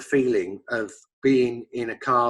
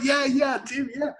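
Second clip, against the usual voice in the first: imitating himself; 10 semitones higher than usual. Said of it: "And I'm like".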